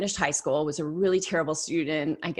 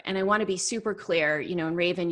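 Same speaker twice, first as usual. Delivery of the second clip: usual speaking voice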